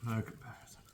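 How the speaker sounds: hushed whisper to himself. Real, not acted. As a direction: whisper it in awe, almost to yourself. Savouring meat, repeats the verdict.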